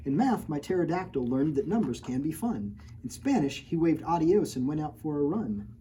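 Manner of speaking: rhyming picture-book read-aloud; story narration. A narrator's reading. Reading a rhyming storybook to children, lilting. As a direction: read the rhyme to the kids.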